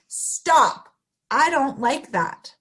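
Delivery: firm, clear model line; model phrase. Shown as a demonstration. Teacher modeling words for children, firm and clear. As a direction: say it plainly for kids to copy. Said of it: "We can say".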